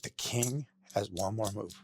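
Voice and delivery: slow, softened recital to oneself; quiet self-reminder. Retold or imitated. Guest to himself at the mirror every morning, quiet self-reminder.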